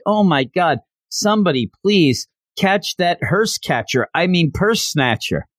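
a hint of a ditzy girl in a panic; panicked girl. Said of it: "She's like".

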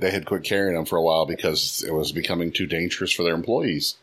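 glitchy, electric-sounding voice; choppy digital robot voice. Real, not acted. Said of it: "you sound like a robot voice".

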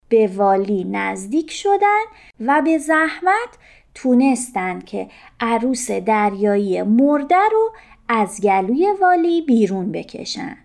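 plain reading voice

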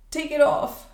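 high, loud cry of terror; frightened shriek; terrified cry. A narrator's reading. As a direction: scream it out in panic, high and loud. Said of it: "starting with terror".

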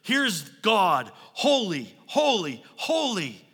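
loud, mildly acted angelic call; preacher imitating a worshipful call. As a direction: proclaim it with a punch on each separate word. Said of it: "calling back and forth".

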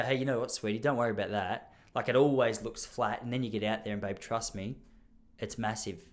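calm her down like she knows nothing; patronising soothing. Retold or imitated. Husband soothing his doubtful wife, patronising and soft. Reassuring wife it always looks flat.

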